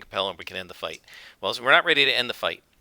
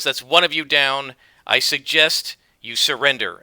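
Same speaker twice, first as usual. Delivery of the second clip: loud, stern call to surrender; commanding demand; 3 semitones higher, 5 dB louder than usual. Acted. Wiglaf demanding the zealots surrender, loud and stern. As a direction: tell them to yield, loud.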